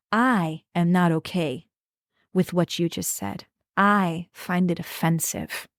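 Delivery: slow, measured statement with weight on "I"; clear and deliberate. Shown as a demonstration. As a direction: spell it out slowly, owning each statement. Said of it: "I'm gonna be really clear".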